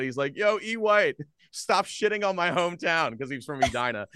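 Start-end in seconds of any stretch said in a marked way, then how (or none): 0.4-3.2 high, loud imitation of a heckler; retold yell. Retelling a dude outside the Wild game, imitated yell. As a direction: call it out like a fan yelling. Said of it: "this one dude yelled out".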